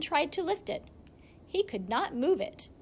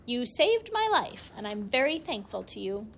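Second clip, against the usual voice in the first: sly hissing weasel. Acted. Weasel speaks to Gilly.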